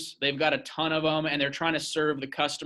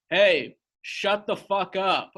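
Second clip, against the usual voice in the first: mild mock yell; 3 semitones higher, slower than usual. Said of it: "like, yelling".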